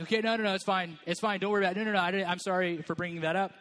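smooth it over, apologize fast; peacemaker. Retold or imitated. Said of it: "peacemakers are people who would much rather just be like".

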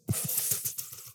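short breathy laugh at his own joke; light laugh. Real, not acted. Preacher laughing at his own joke, breathy laugh. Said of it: "I'm just kidding".

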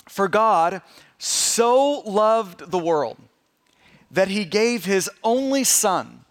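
slow, spaced scripture reading. Real, not acted. Pastor reads a familiar verse to the congregation, slow scripture reading. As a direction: read it slowly, phrase by phrase, with weight.

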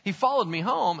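a hint of a pleading child; child begging for a dog. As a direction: beg lightly like a kid with a stray. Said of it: "it's almost like he has a dog".

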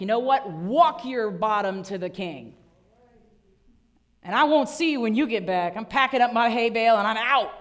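mock walk-out, fed up; sassy fed-up donkey. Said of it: "we would have been like".

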